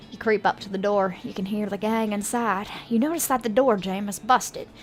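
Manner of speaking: measured, understated storyteller read; game narration. Acted. Game master setting up the arrest of a gang, narration.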